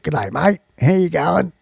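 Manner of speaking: casual mock Aussie greeting; Australian accent. Shown as a demonstration. Showing how Australians greet a mate, Australian accent. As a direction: put on a light Australian accent. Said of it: "I think that Australians talk".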